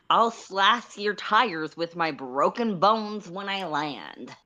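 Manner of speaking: unvoiced, gleeful whispered threat. Solix threatening while leaping from the car, whispered. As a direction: hiss the threat like a movie villain.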